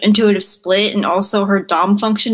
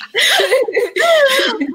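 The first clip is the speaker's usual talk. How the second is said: real laugh, high; high burst of laughter. Real, not acted. Guest laughing at her dad story, high laugh. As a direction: crack up laughing.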